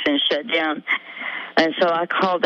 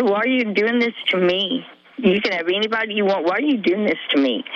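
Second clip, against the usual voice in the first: mildly feisty, slightly raised pitch; retold feisty protest; 4 semitones higher than usual. Girl confronting her attackers, mildly feisty retelling. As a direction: replay a child's challenge with restrained fight. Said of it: "I was feisty".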